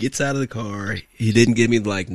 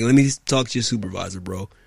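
ordinary talk

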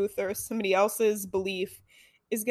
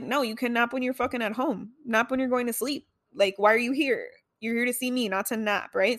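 put-on hurt, upset, indignant tone; 2 semitones higher than usual. Recalling someone napping during a visit, the speaker retells their upset indignation. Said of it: "I would get so in my feelings about it".

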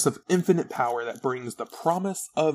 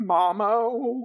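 high, drawn-out, stretched-out sobbing and crying; 8 semitones higher than usual. Retelling how the character runs to him crying: imitating a character crying. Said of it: "she's crying".

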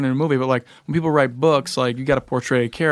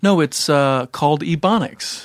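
normal talking voice

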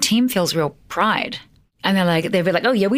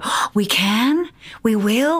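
very slow, drawn-out, hopeful, eager; 4 semitones higher than usual. Imitating the staff she calls sunflowers reacting to new challenges: imitating eager staff. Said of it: "I'm being a sunflower".

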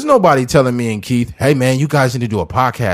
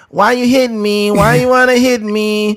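very high-pitched, slow voice; 10 semitones higher, 3 dB louder than usual. Imitating a singer complaining about being hit: high-pitched singer voice. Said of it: "a high-pitched voice, so he'd be like".

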